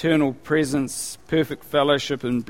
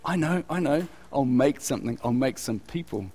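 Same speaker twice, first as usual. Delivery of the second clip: mock lonely God; 4 semitones lower than usual. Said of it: "And he goes".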